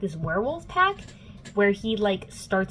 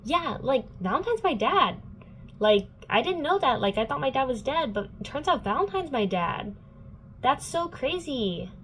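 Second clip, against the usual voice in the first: higher, breezy and oblivious, slowing on "so crazy"; airy, clueless dude; 6 semitones higher than usual. Retold or imitated. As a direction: shrug it off like a happy, clueless teen. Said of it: "he's like".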